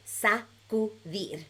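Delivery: Sacudir in measured syllables, shorter gaps; moderately slow teaching model of Sacudir. Shown as a demonstration. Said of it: "just a little bit faster".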